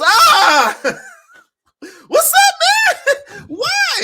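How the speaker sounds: hammed-up high yelp of protest, laughing; mock protesting Ant-Man. Ant-Man yelping at Draymond after the hard foul, high mock protest. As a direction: squeal it way up high like a wronged player, cracking up. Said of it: "It goes".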